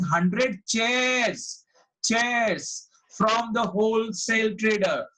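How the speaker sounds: "chairs" drawn out slowly and repeated; stress on chairs. Shown as a demonstration. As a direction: lean long and hard on the word "chairs". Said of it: "I have given stress".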